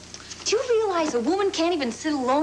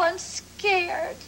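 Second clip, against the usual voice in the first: tearful. Acted. Charlie breaking down to George.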